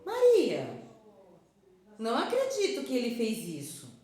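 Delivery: Maria shouted high and loud in shock; shocked disbelief. Shown as a demonstration. Teacher showing the class outraged disbelief, loud and high. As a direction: gasp it out as if you can't believe it. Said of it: "pronuncie o nome Maria com entonações diferentes".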